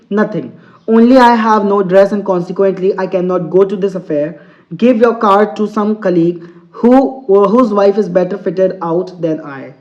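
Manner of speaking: slow, deliberate English reading; teacher reading a story to students, very slow; slow read-aloud. Acted. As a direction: read each word out slowly for the class. Teacher reads story text aloud.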